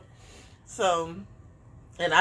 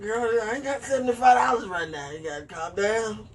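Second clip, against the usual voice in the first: laughing through the words; half-laughing reply to the therapist; 3 semitones higher than usual. Retold or imitated. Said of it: "I be texting her like".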